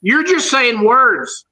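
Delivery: "You're just saying words" slowed down word by word; deliberate, drawn-out objection; slow emphatic. Real, not acted. Critic repeating his verdict to a would-be mimic, slow and emphatic.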